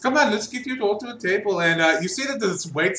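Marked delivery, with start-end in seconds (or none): 0.0-1.6 put-on weak German accent. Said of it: "She's got a thick German accent".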